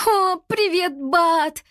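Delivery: high, loud put-on cheeriness; nervous fake friendly hello; fake cheerful. A narrator's reading. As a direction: pretend all is fine before the monster. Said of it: "наигранно махнула рукой".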